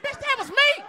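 loud, high-pitched retort; exasperated mock yell; indignant outburst. Indignant confession to his homeboy.

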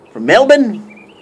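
slow Melben, no R; mock Aussie Melbourne. Shown as a demonstration. Teasing the YouTuber's Melbourne, no R. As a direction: drawl From Melben. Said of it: "Pronounce your R's".

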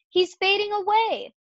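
high-pitched alarmed exclamation; storybook scream at moderate volume; Fern's alarmed cry. A narrator's reading. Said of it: "screamed Fern".

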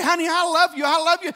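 loud, high, straining declaration; worked up. Acted. Husband trying to reach his wife, worked up. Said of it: "Why is he so worked up".

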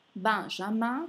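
"Benjamin" with both nasal vowels, no sounded N. Shown as a demonstration. Teacher models the name, nasal vowels. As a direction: say "Benjamin" the French way, nasal endings. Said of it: "suono nasale".

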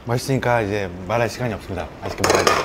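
pausing mid-meal to talk; speaking while eating a meal; talking between bites. Real, not acted. Seen 1: Bowl in hand, eating before and after, talking while reaching.

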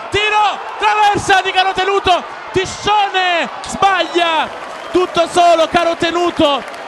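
high, agitated shout; excited near miss. Real, not acted. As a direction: rise up as it hits the bar. Shot hits crossbar. (occasione mancata, voce concitata)

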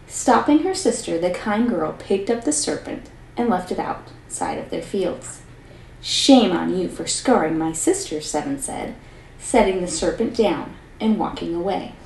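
lively read-aloud storyteller voice; story narration. A narrator's reading. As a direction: tell the fairy tale to a class, expressively. Teacher reads story aloud.

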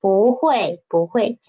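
不 rising before a falling 会; second-tone bu. Shown as a demonstration. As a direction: say 不 in second tone, 会 in fourth. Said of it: "change from fourth tone into second tone".

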